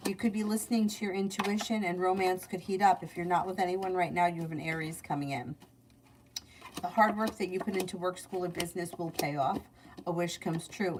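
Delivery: even, low-key reading delivery; psychic reading. Acted. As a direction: read out predictions in a steady run. Reads out weekly predictions.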